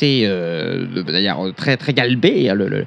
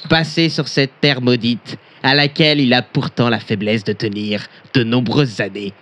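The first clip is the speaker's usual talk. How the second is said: mock solemn reading fading; 2 semitones lower than usual. Pompous reading, sinking to hush.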